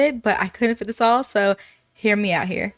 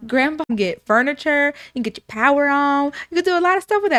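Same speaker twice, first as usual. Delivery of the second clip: excited; 5 semitones higher, 3 dB louder, faster than usual. Acted. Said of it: "And she's like".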